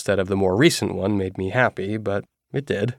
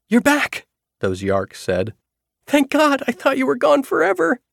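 pleading dog voice. Acted. Dog's cries voiced as words.

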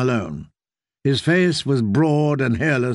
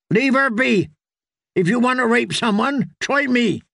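higher, ringing defiance; defiant challenge; 10 semitones higher than usual. A narrator's reading. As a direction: draw the outlaws off her. Brienne challenges the outlaws.

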